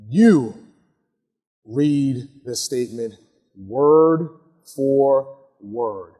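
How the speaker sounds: slow and deliberate; stress on word for word. Shown as a demonstration. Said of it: "Why do I say you read it?".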